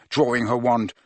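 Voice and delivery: ordinary delivery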